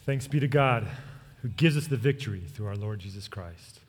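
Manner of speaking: measured pastoral blessing; closing benediction. Real, not acted. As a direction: bless the congregation to close the service.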